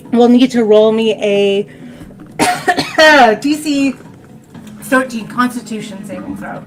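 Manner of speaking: coughing through the words; throat raw from screaming; choking cough. Real, not acted. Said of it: "I'm choking on that sound I made".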